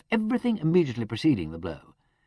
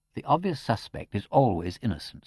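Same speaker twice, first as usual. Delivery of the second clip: same light tone; 4 semitones lower than usual. Acted. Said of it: "in the same tone".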